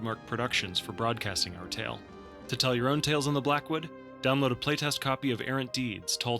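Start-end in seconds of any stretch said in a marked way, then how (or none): none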